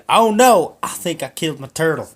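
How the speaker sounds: high, loud sudden alarm; mock panic. Man finding turtle at bowl bottom, high alarmed cry. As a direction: gasp at the dead-looking pet.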